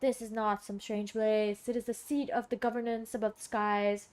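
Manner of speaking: lightly put-on formal oracle, measured; solemn watcher. Watcher naming the seat above the skies, mildly solemn voice. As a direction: pronounce it with a touch of mystery. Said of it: "why I'm talking like that".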